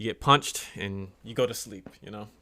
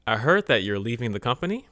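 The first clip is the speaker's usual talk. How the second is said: friendly greeting; 3 semitones higher, 6 dB louder than usual. Acted. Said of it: "two friends talk about boxing".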